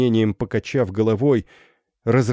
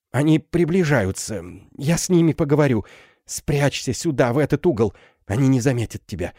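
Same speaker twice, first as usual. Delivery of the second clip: high, fast hurried instructions; quickly hide the girl; urgent mother; 7 semitones higher than usual. Acted. Mother plans to hide her. (торопливо, высоко)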